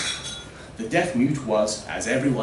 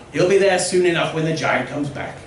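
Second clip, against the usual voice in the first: villager voice; 5 semitones higher, 6 dB louder than usual. Acted. Villager mocks the mute.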